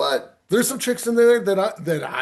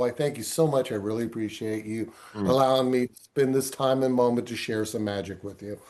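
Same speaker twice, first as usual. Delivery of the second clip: modest, humble, appreciative, grateful tone; 5 semitones lower, 6 dB quieter than usual. Showing how a magician thanks an audience: humble thanks. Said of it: "humble again".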